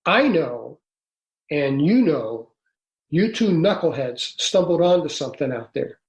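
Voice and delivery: a hint of tough-guy Louisiana, pausing between phrases; Louisiana accent. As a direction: retell it with a touch of Louisiana accent. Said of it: "Louisiana accent, kind of like Calvin Parker".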